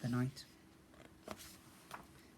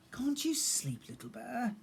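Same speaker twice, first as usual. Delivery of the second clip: high, hushed whisper; tired bear whispering at bedtime; whispered question; 9 semitones higher than usual. A narrator's reading. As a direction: whisper it so as not to wake anyone. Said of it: "grunted Big Bear".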